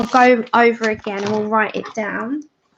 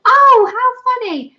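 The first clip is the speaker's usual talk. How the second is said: laughing; 11 semitones higher, 5 dB louder than usual. Real, not acted. Laughs at own misreading.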